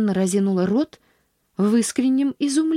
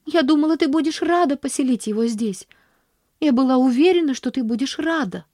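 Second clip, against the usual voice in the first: put-on high, earnest girlish plea; a hint of a hurt child explaining; girl pleading; 5 semitones higher than usual. Girl explaining herself to her aunt, earnest.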